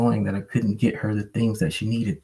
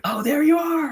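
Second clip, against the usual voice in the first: very high, squeaky pet voice; happy dog voice. Retold or imitated. The dog finally spots its owner, squeaky and high. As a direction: voice the dog as a giddy little creature. Voicing dog recognizing him.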